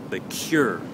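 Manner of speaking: "cure" picked out as the strong syllable; stressed syllable alone. Shown as a demonstration. Teacher isolating the second syllable, "cure" stressed. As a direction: lean on "cure". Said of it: "stress now is on the second syllable".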